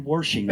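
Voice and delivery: WASHING said with an r, as "worshing"; regional pronunciation. Acted. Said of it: "People talk funny".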